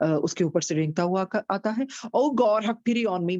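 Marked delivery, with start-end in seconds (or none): 2.2-3.4 louder and higher plea to God; shouting for pity. Acted. Robber covered in snakes shouts to God for pity. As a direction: call out to God for mercy. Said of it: "and he shouted".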